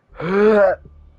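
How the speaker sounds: loud heavy sigh. Real, not acted. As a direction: let out a loud breath. Loud noise before resuming reading.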